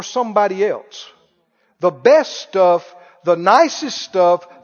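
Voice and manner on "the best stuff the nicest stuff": slow emphasis. Real, not acted. Preacher slows for emphasis.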